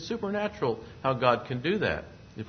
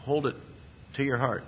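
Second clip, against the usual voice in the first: ordinary delivery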